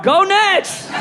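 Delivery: high-pitched team shout; fan cheer. Acted. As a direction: cheer for yet another new team.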